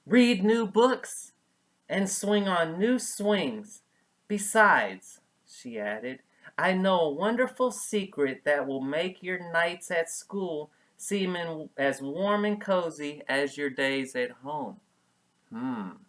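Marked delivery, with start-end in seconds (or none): 0.1-5.2 gentle mother. Acted. 6.6-14.8 gentle mother. Acted.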